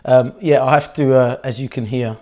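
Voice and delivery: hoarse, croaky voice. Real, not acted. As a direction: talk through a croaky throat. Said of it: "excuse my little bit croaky voice".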